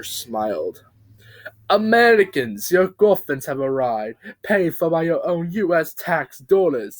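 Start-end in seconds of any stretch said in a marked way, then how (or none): 1.7-7.0 loud, high announcement; ranting yell. Acted. Bob announces coffins to Americans, yelling loud. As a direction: proclaim it like a rally speech. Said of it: "he yelled".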